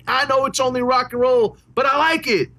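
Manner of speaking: high-pitched frontman cry, rising to a peak; a rock singer. Retold or imitated. Fan imitates frontman rousing the crowd with a lyric, high mock stage cry. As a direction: imitate a rock singer rallying the crowd. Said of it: "raising your hands and screaming".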